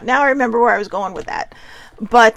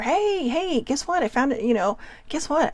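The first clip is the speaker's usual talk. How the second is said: higher-pitched retold "hey, hey"; lightly acted excitement, pitched up; excited call-over; 4 semitones higher than usual. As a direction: imitate a friend eagerly calling someone over. Friend waves speaker over, excited find.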